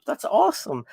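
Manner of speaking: high, delighted; thrilled exclamation; excited. Real, not acted. Mayo turns up.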